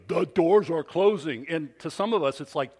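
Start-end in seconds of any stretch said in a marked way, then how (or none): 0.1-1.5 louder stern announcer imitation; imitating the announcer. Preacher mimicking the airport train voice, mild stern imitation. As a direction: bark the warning like the train voice. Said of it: "He goes".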